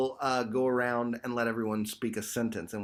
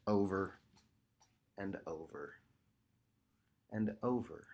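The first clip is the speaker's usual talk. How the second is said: repeated mantra phrasing; 5 semitones lower, 11 dB quieter than usual. Shown as a demonstration. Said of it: "we want to repeat them".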